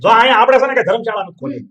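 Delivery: loud sneering rant with laughter mixed in; loud mocking scorn. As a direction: throw her words back at her with a jeering laugh. Brother mocks sister's pity, loudly.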